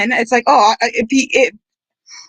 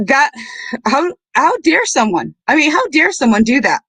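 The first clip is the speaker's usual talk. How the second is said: real emotion catching, voice pitched up; choked up; 4 semitones higher than usual. Real, not acted. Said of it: "getting a little, uh, choked up there".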